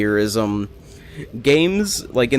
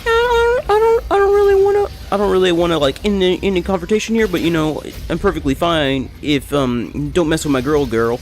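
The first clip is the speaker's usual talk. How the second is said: nervous high nerd voice, far higher, easing down; school nerd voice; 6 semitones higher than usual. Retold or imitated. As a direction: nerd in school defending his girl. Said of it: "the nerd in school who's like".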